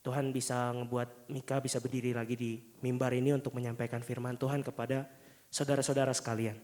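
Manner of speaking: muffled behind a face mask; through a face mask. Real, not acted. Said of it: "Kalau saya pakai masker".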